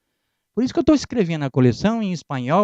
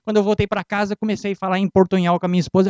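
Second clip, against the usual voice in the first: normal talking voice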